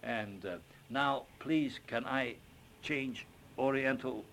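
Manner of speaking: put-on Chinese accent. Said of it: "with a little Chinese accent".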